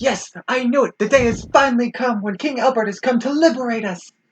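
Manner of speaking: put-on very high, bursting, excited child voice. A kid reacts to the arrival of his long-awaited liberator, super excited kid. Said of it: "The kid is super excited".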